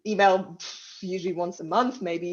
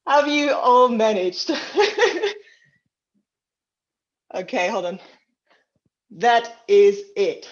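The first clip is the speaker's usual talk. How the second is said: out of breath; 3 semitones higher, 6 dB louder, slower than usual. Real, not acted. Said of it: "when I catch my breath".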